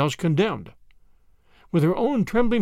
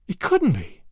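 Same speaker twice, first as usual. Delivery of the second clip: understated shocked gasp; gasped disbelief. A narrator's reading. Grandma told the man is a murderer, gasping. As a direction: say it with a touch of stunned disbelief. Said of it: "she gasped at last".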